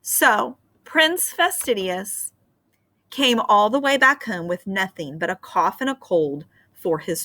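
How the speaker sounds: put-on gentle read-aloud for children; storybook narration. A narrator's reading. Teacher reading a fairy tale to her class, gentle storytelling. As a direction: tell the tale like a bedtime story.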